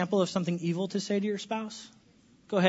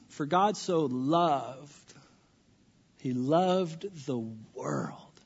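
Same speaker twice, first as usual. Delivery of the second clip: slow whisper, lower; whispered scripture; 7 semitones lower, 6 dB quieter, much slower than usual. Acted. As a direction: breathe the verse out slowly. Quoting John 3:16 slowly.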